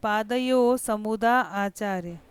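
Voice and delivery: slow, deliberate recitation; reciting Sanskrit verse. Shown as a demonstration. Teacher recites Abhimanyu's verse to students, slowly. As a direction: lay out each syllable of the verse. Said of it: "श्लोक के रूप में कहता है".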